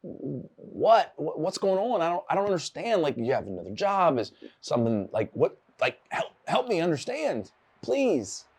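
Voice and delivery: high, pleading bewilderment; shocked confusion. Retold or imitated. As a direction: retell the stunned boss who can't grasp it. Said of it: "I was like".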